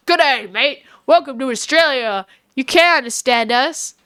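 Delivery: broad Australian accent, lightly put on; a casual Australian "g'day mate" voice. Shown as a demonstration. Telling chat how Australians sound, mild Australian accent. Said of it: "Australians sound like".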